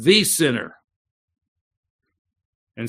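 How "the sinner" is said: "The" stressed and a bit louder; preacher repeats "The sinner" with weight on "The". Shown as a demonstration. Stress on "The" in "The sinner". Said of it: "No, he said".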